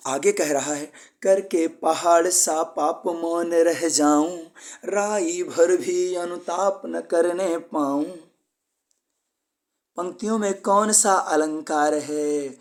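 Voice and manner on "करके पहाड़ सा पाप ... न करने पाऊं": slow, slightly raised verse reading; poem recitation. Shown as a demonstration. Teacher recites Kaikeyi's lines to students, slow and measured. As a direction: recite each line slowly and deliberately.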